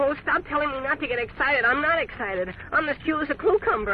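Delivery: worked-up, indignant protest; excited denial. Acted. Passenger snapping at professor to stop telling him, excited. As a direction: insist you are calm while clearly agitated. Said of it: "You are excited".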